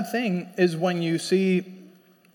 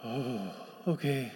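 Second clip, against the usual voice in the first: small, low, very soft okay; chastened reply; 7 semitones lower, 12 dB quieter than usual. Retold or imitated. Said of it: "I'm like".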